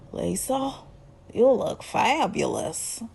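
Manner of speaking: mock smitten, soft and drawn out; smitten admiration. Recapper voices Stan admiring Lisa's hair, mock smitten. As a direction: imitate an admirer cooing slowly.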